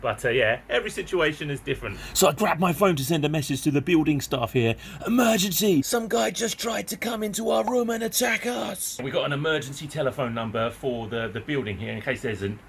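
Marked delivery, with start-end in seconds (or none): 5.1-9.0 urgent, high alarm call; panicked text. Retold or imitated. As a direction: blurt it out like a frantic alert. Reading his panicked emergency text.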